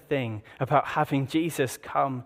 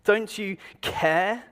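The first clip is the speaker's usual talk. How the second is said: Martha's plea; 2 semitones higher than usual. Retold or imitated. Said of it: "she decides to interrupt Jesus".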